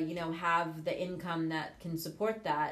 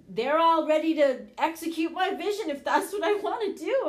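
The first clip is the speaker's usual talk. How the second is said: normal talking voice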